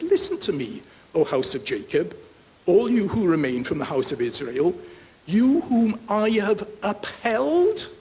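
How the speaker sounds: declaimed words of God, stretched at the end; scripture reading. Acted. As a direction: read it out as God addressing his people. Reads God's words from scripture.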